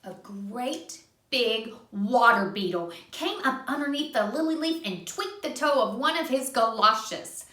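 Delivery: put-on gentle read-aloud for a child; reading to a little one; storybook narration. A narrator's reading. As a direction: tell it like a bedtime story. Reading a picture book aloud.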